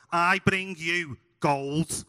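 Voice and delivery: slow, lightly acted child's stage line; mock-solemn nativity delivery; boy king in nativity. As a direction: declaim it slowly like a kid in a school play. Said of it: "turns to the audience and goes".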